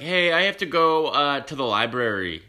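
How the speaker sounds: put-on high, loud, whiny kid asking to leave; hammed-up student begging to go; mock student voice. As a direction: imitate a student making an excuse. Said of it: "someone would come up and be like".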